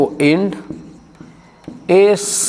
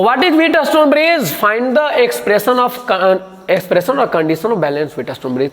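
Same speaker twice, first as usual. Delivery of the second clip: slow dictation; 3 semitones higher, much slower than usual. Shown as a demonstration. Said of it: "reads exam question".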